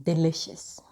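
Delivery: hushed, confessional reveal; whispered reveal. Shown as a demonstration. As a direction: drop to a whisper for the punchline.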